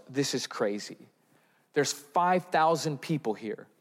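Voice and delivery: scoffing disbelief, rising to a mocking question; cynical and sarcastic. Apostles mock Jesus's request, sarcastic and cynical. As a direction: sneer at the idea of feeding them. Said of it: "you can hear the cynicism and sarcasm".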